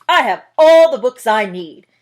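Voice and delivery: loud, firm cut-off; loud bear. Acted. Bear cuts Mouse off.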